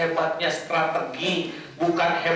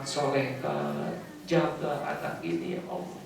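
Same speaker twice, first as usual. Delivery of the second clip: humble prayer. Acted. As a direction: pray as a repentant mother, hushed. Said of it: "seorang ibu yang begini".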